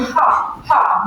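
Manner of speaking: teacher showing the H sound, freely breathed "ha"; "ha" with air flowing and no blockage. Shown as a demonstration. Teacher shows students an unblocked sound, "ha" breathed out. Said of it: "the H sound".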